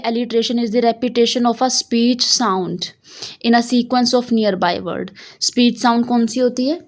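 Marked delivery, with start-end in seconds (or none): 0.0-5.1 slow reading. Shown as a demonstration. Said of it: "पहली line हमारी यही बता रही है".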